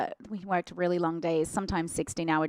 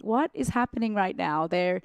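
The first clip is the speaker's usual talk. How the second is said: confused; 5 semitones higher, 3 dB louder than usual. Retold or imitated. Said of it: "I was like".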